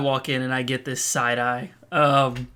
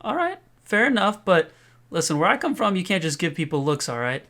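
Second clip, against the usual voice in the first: tough guy swagger; 6 semitones higher than usual. Acted. The speaker in character lecturing teen.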